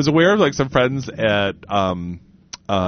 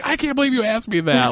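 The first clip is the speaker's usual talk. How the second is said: mock offended; 9 semitones higher than usual. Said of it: "like this or whatever".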